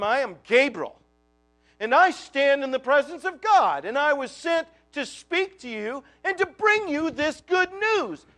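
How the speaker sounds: a touch of a proud announcing angel; lofty angel. Retold or imitated. Preacher lightly voicing Gabriel introducing himself to Zechariah, proud. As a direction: lightly pronounce it like a self-important herald. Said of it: "I think he said it like that".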